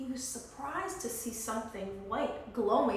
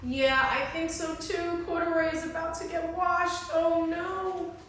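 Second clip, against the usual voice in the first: higher, louder, dramatic oh no; excited agreement; 6 semitones higher, 6 dB louder than usual. Real, not acted. Reader reacts excitedly.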